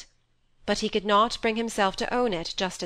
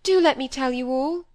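tearful plea; 6 semitones higher, 5 dB louder than usual. A narrator's reading. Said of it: "crying and clinging to him".

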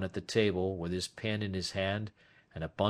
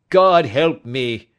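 loud, slow, higher-pitched cry; anguished cry; 6 semitones higher, 13 dB louder, slower than usual. A narrator's reading. Old man to detective who knows his secret, anguished cry. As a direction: cry out for mercy, drawn out. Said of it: "he cried".

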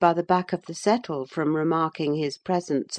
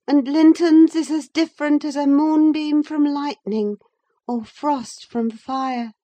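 put-on higher young woman's voice, earnest and confiding; Catherine's voice; 8 semitones higher, 3 dB louder than usual. Catherine confessing her love to Nelly, earnest. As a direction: let the secret spill out, half to herself.

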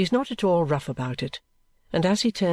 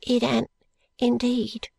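sighing; 9 semitones higher, slower than usual. Acted. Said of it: "replies the woman with a sigh".

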